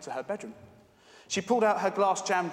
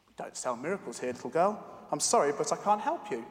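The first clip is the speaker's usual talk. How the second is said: softening a little. Acted. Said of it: "softening a little".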